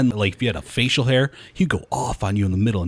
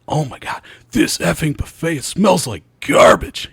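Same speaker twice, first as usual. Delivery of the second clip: high, slow, hammed-up rant; going nuts; 6 semitones higher, 4 dB louder, slower than usual. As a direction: draw out each disgusted word, building louder. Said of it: "He's going nuts".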